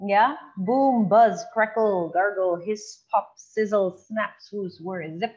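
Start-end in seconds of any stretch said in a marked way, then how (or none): 0.1-4.0 sound words. Shown as a demonstration. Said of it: "Onomatopoeia sound words".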